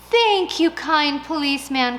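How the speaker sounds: high, loud grateful cry; overjoyed thanks; old lady crying thanks to the policeman; cried thanks. Acted. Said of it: "cried the old lady".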